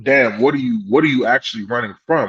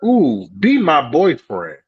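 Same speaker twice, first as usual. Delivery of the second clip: slow, cooing flirt; flirty lady; 2 semitones higher, 3 dB louder, slower than usual.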